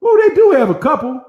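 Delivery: loud, sudden oh they do; a real surprised exclamation; caught-out surprise. Real, not acted. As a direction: blurt it out, caught off guard. Surprised while checking a map.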